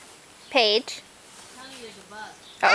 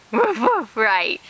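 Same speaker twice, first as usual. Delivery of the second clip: dog noise; 4 semitones lower, much slower than usual. Shown as a demonstration. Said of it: "That's not what a doggy says".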